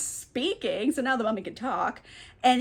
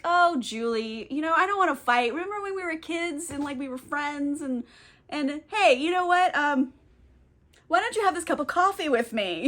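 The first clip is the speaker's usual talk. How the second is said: sweet-talking in a raised voice; mock-friendly, higher-pitched wheedle; coaxing; 4 semitones higher than usual. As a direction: play a phony peacemaker buttering someone up. Henry falsely coaxing Julie.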